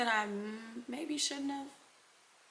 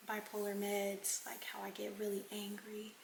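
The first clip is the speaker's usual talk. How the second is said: hushed confession; 5 dB quieter than usual. Retold or imitated. Boyfriend admitting his anger problem in a whisper. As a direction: lean in and whisper it like a secret.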